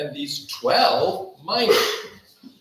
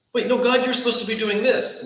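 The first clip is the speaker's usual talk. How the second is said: indignant protest; 5 semitones higher, faster than usual. Retold or imitated. Voicing angry complaint to God.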